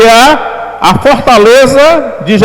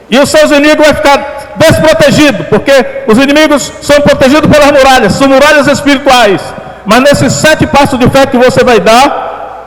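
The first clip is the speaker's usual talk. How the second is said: pregação declarativa. Real, not acted. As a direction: declare com firmeza, como promessa de fé. Pregador declara vitória aos fiéis. (pregação em tom de declaração profética)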